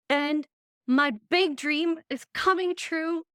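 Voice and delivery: thrilled squeal of real excitement; excited. Real, not acted. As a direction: voice jumps up with joy. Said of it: "I'm so excited".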